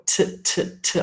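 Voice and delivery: T tapped out with no voice; three crisp, isolated T bursts; tongue-on-teeth consonant. Shown as a demonstration. Teacher showing tongue against teeth, voiceless T demo. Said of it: "my tongue against my teeth".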